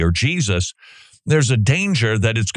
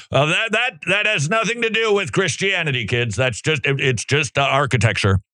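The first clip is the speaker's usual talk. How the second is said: high, flustered teacher voice; mock teacher; 5 semitones higher than usual. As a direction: stammer out the denial higher, lightly voiced. Teacher dodging the student's question.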